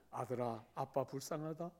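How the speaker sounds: father begging son for money, softly; pitiful old father. Retold or imitated. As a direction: play a mock-pitiful dad begging. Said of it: "뭐 이런 거죠".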